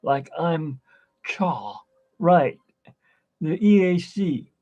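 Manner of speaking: imitated cool turtle dude. Imitating the turtles they all had, cool dude voice. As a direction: do a loose surfer-dude turtle. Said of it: "they all had that".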